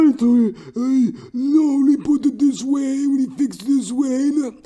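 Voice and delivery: high, slow put-on voice of a fussy worker; mock accented worker. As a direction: play the fussy worker defending his fix. Voicing worker Marius's excuse.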